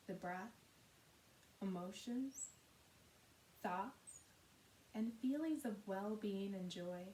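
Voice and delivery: measured, unhurried meditation guidance with long pauses; guided meditation. Acted. Yoga teacher settling listeners into Yoga Nidra, calm guided meditation. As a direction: guide gently, softening at the ends of phrases.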